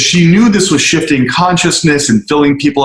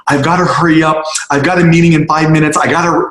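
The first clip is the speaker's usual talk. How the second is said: quick, a bit higher, rushing; hurried mock quote; 4 semitones higher, faster than usual. Imitating rushed people late for a meeting, hurried. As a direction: rattle it off like a busy person. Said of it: "always in a rush and a hurry".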